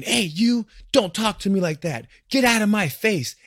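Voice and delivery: imitating an insecure guy shouting back; yelling back. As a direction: bark it back like a puffed-up tough guy. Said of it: "and yelling back".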